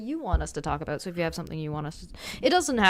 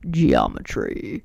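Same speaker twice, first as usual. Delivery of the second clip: very deep, slow, dragged out; low sick voice; 8 dB louder, much slower than usual. Pretend. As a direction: drop the voice way down and stretch it. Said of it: "you wanna hear my low, sick voice".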